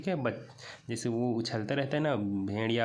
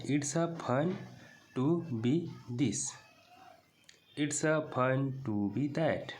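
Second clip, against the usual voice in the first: very slow, word by word; slow reading aloud; 2 semitones higher, much slower than usual. Shown as a demonstration. Teacher reading the textbook line to class, very slowly. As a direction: read the English line slowly for students. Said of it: "it's मतलब यह होता है".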